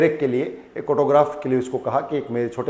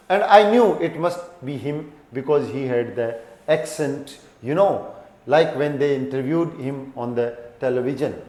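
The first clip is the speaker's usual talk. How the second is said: slow story reading; much slower than usual. Acted. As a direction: read each English word slowly and clearly. Reads the story text to class. (धीमी कहानी पढ़ाई)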